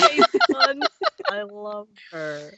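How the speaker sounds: high, loud squeal of delight. Real, not acted. Player delighted by the attendant's space buns, squealing. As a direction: squeal over the cute detail. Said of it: "delighted player reaction".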